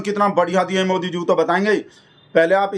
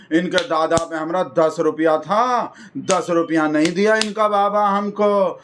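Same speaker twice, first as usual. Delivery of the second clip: slow, pompous taunting of the neighbours; lightly hammed-up neighbourhood orator; mock gossiping speech. Rajesh badmouthing neighbours at the flag hoisting, slow and taunting. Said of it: "हम उसके करके बता रहे हैं".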